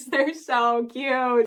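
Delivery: slow, laughing through the words. Real, not acted. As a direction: giggle it out, slowly.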